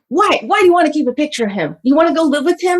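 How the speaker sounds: imitating an angry mother's challenge; mock interrogation, pressing for an answer; raging mother retold. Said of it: "She's raging".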